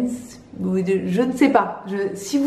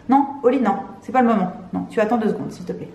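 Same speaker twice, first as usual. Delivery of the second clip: scolding the cat; 3 semitones higher, faster than usual. Real, not acted. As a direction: tell the cat off, then soften at the end. Scolding her cat mid-video.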